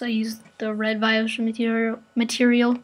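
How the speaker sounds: talking while chewing gum; words slurred around a piece of gum. Real, not acted. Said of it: "I'm chewing gum right now".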